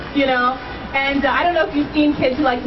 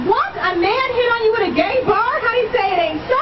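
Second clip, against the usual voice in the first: mock shock; 7 semitones higher than usual. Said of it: "I was like".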